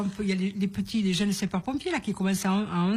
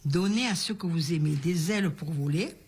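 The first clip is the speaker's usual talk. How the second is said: recited saying. Shown as a demonstration. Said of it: "refais-la nous, s'il te plaît".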